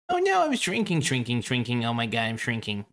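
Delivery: half-hearted mock shrinking cry; shrinking smaller and smaller. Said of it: "I can't even do that voice properly".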